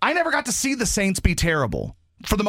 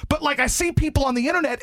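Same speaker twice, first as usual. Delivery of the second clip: ordinary talk, nothing marked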